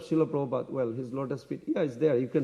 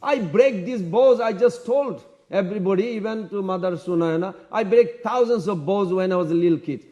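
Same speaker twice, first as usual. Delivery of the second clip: defiant boasting; 3 semitones higher, 3 dB louder than usual. Retold or imitated. Lakshman boasts to Parashuram.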